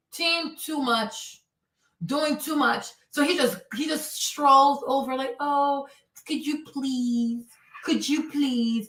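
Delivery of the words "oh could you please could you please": play-acted sugary, sweet, courteous tone. Acting out a man asking someone to leave his tent in the rain, imitating a sweet voice. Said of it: "Even if he said in a sweet voice".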